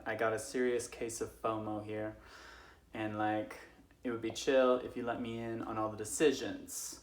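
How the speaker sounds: loud, pushy bro Lucifer; whiny Lucifer. Acted. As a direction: demand in on it like a bro. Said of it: "Lucifer's like".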